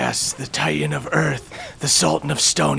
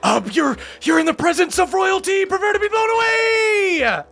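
boastful queen. Acted. GM voices boastful royal figure.

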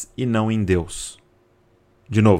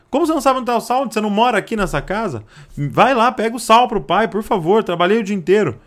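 much higher, fast exasperated scolding; exasperated father; 8 semitones higher, faster than usual. Retold or imitated. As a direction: scold the son for not knowing. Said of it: "o pai já fica doido". (pai irritado em voz bem mais aguda)

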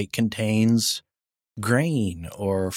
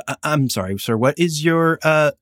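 high, hurried phone-agent voice; flustered customer service rep; 6 semitones higher than usual. Pretend. Rep scrambling to help the angry arms buyer, high and rushed. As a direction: fumble for the right form, high and apologetic.

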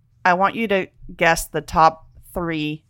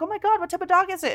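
mock gushing; 11 semitones higher, 3 dB quieter, faster than usual. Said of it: "I was like".

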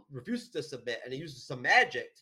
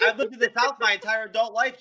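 laughing protest; 8 semitones higher, 9 dB louder than usual. Real, not acted. Defending himself while laughing.

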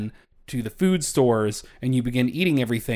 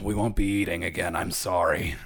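apologetic Waddle Dad; 7 semitones lower than usual. Acted. Poor dad apologizing to his children, dejected. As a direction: drop down into a sorrowful apology. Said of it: "is just like".

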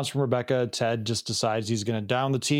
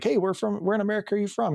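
quoting Ted; 9 semitones higher, faster than usual. Retold or imitated. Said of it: "Ted's like".

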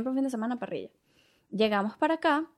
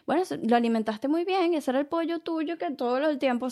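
relative's reveal; 6 semitones higher than usual. Retold or imitated.

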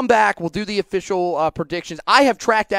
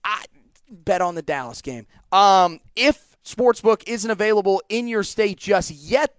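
ad read; 2 semitones higher than usual. Acted. Reads a DraftKings ad spot.

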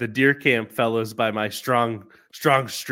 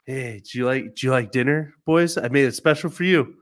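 lightly raised coaxing pet-owner voice; talking to dogs; 2 semitones higher than usual. Retold or imitated. Owner serving the dogs dinner, lightly coaxing pet voice. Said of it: "pet 'em on the head and be like".

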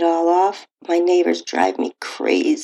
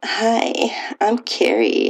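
bright, higher greeting; cheerful; 5 semitones higher, much slower than usual. Acted. Carrie greeting the handsome landlord at the door, cheerful. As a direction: greet him with a cheerful lift. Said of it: "I said cheerfully".

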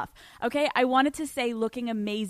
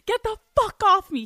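high, loud mock-panicked yell; exasperated, high-pitched storytelling shout; retold angry outburst; 8 semitones higher, 5 dB louder than usual. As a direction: act out shoving someone off you. Retold shoving partner off.

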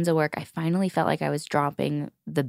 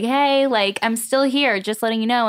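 high, louder little gremlin taunt; 6 semitones higher, 4 dB louder than usual. Retold or imitated. Returning trauma pictured as a gremlin saying it is still here, in a high, louder gremlin voice. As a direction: pipe it up high like a cheeky little gremlin popping up. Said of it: "I imagine it's like a little gremlin".

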